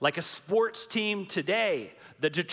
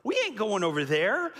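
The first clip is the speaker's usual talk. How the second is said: flat refusal; 4 semitones higher, 5 dB louder than usual. Retold or imitated. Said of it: "This is what they're thinking".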